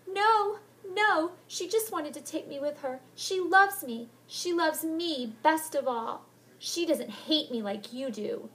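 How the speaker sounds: high, slow pleading insistence; tearful defence. Acted. Heather tearfully defending Helen to Molly. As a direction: defend her only friend.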